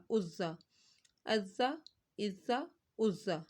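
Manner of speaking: ذال said gently and softly, no hard stop; teacher shows students the soft ذال, quietly; soft dhal. Shown as a demonstration. ذال soft, quietly and gently. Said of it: "نرمی سے پڑھنا ہے".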